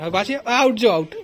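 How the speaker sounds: giggling game call; laughing call. Real, not acted. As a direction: laugh as you call her out.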